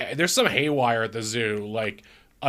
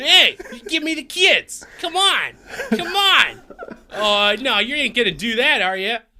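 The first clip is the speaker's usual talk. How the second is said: put-on accent from Cleveland; 12 semitones higher, 5 dB louder than usual. Show how he talks in a movie maybe shot in Cleveland, in sort of a Cleveland accent. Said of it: "sort of a Cleveland accent of just like".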